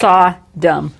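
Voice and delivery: "Sodom" in two separated syllables; broken-up pronunciation. Shown as a demonstration. Host practising "Sodom" all broken up, first syllable stressed. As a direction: say "Sodom" as SOD... um. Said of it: "say it all broken up like that".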